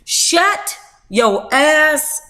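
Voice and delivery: mock outburst; retold exasperated yell. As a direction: snap at him like a fed-up sister. Retold scolding of brother.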